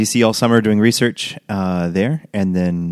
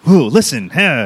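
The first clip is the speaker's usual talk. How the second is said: higher, louder amazed exclamation; amazed Roman "whoa"; 5 semitones higher, 3 dB louder, slower than usual. Retold or imitated. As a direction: act out Roman astonishment. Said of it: "or like".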